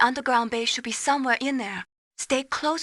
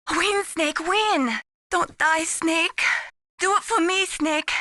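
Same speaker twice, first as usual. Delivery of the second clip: urgent pleading; 5 semitones higher, slower than usual. Acted. Mei Ling urging Snake on.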